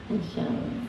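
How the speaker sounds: breathy whisper of wonder; barely voiced, in awe. Real, not acted. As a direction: Masya Allah whispered in awe.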